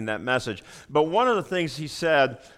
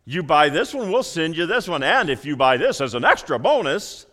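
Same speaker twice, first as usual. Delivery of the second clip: mock infomercial; 4 dB louder than usual. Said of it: "We've all heard it".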